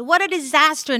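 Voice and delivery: put-on high boy's dismay; agree, appalled, as a kid; dismayed child. A narrator's reading. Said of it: "Noel agreed".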